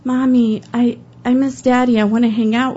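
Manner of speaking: a hint of a four-year-old missing her dad; little girl's voice. Little girl telling her mom she misses her daddy, lightly childlike. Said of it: "was like".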